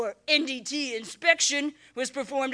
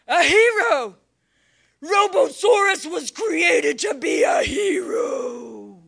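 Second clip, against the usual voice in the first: triumphant; slower than usual. Acted. Triumphant self-proclamation.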